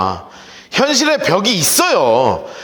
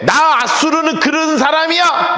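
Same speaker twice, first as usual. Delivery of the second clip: arrogant boast; 8 semitones higher than usual. Retold or imitated. Preacher voicing proud Assyria boasting: high slow shout. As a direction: crow it like a puffed-up conqueror. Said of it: "라고 이야기하고 돌아다녔다고요".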